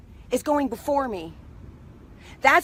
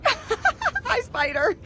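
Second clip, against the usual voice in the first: giggly hello; 2 semitones higher than usual. Real, not acted. There's a spider.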